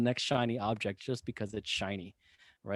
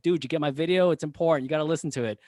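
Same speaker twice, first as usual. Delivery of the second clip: higher, louder mock-urgent plea; retold urging; 5 semitones higher, 4 dB louder, faster than usual. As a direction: act out pestering friends to listen. Acts out urging friends on calls.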